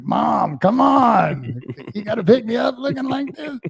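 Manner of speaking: put-on high, pleading kid whine; whiny embarrassed kid. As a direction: beg your mom like a mortified kid. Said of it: "you're like".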